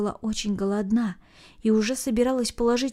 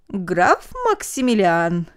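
slow formal address; 2 semitones lower, 5 dB louder, much slower than usual. A narrator's reading. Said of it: "ответил Барбаросса".

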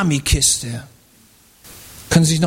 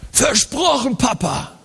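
put-on higher, quick kid's promise; eager child promise; 6 semitones higher, slower than usual. Son promising his father, eager child voice. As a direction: promise Papa like an eager boy.

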